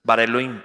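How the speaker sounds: Bara Elohim linked as one word; run together. Shown as a demonstration. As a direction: say Bara Elohim in a single breath. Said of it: "tengo que leer las dos juntas".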